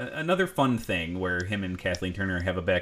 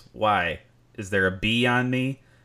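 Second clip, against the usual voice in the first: put-on sarcastic voice, slower pace; 4 dB louder than usual. Retelling a scene to a listener, Quaid sarcastic impression. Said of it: "rolls his eyes into the back of his head and goes".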